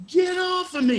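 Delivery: high, loud imitated shriek of fright; mock frightened scream. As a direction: shriek it like an actress grabbed by surprise. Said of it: "you know, like that".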